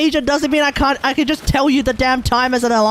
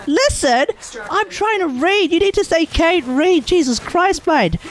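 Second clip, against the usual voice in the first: mock outrage; 5 semitones higher than usual. Mock rant, memeing about reading.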